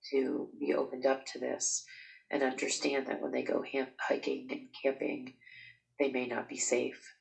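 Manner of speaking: blocked nose, stuffy nasal voice. Real, not acted. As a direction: talk through a clogged nose. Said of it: "Sorry about my nose. It's pretty clogged up".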